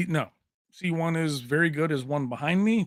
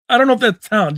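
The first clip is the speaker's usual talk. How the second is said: says it through a loud laugh; 8 semitones higher, 11 dB louder, faster than usual. Real, not acted. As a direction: laugh the words out, bashful. Laughing while answering compliment.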